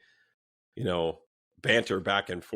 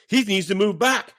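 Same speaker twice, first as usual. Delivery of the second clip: high, raised mock yell; retold angry demand; 11 semitones higher, 6 dB louder than usual. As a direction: imitate an indignant man making demands. Retelling the bully's demand.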